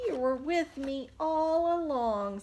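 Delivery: cheerful realization; happy and loud. Acted. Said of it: "says Pete".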